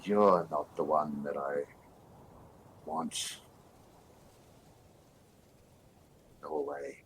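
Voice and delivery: slow, hushed whisper from the dark; dark whisper behind you. Acted. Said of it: "I'm trying to do a voice".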